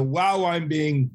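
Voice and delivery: mock pride. Player's imagined proud reaction.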